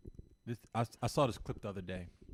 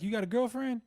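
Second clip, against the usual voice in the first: higher, imitated Southern accent; 9 semitones higher than usual. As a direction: mimic a Southern radio host. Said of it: "I'm trying to do a Southern voice".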